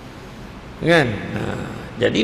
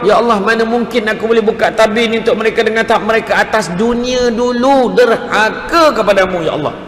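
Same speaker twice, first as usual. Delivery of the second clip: higher-pitched objection; protesting angel; 5 semitones higher than usual. Retold or imitated. Angel questioning God's order, higher protesting voice. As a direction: plead the case, stretching the key words. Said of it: "Malaikat jawab".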